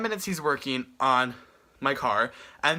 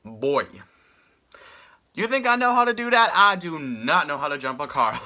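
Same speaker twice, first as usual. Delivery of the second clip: flabbergasted retort to the stranger; incredulous mock scoff; 3 dB louder than usual. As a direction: scoff at him as if he's crazy. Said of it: "And I'm just like".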